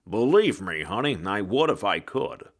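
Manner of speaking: put-on a light touch of a wry old-timer; ghost voice. A narrator's reading. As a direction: ghost answering the bookseller, resigned. Ghost replies wryly.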